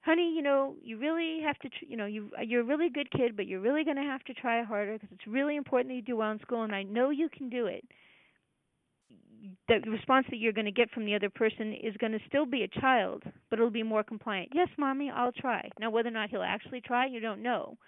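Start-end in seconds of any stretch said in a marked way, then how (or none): 0.0-7.9 nurturing parent voice. Retold or imitated. Mother encouraging her child to try harder, tenderly. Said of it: "use a nurturing parent voice". 14.5-15.7 put-on compliant child. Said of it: "It's a compliant child".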